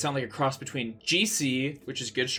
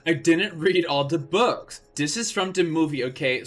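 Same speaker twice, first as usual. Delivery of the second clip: defensive author's note; 3 semitones higher than usual. Acted. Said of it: "author's note rant".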